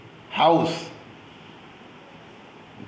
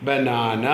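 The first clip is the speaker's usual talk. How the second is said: ബനാന in three drawn-out syllables, lower in pitch; 4 semitones lower, slower than usual. Shown as a demonstration. Teacher repeats the three syllables, ബനാന said syllable by syllable. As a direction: stretch out ബ-നാ-ന in ബനാന. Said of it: "മൂന്ന് syllables ഉണ്ട്".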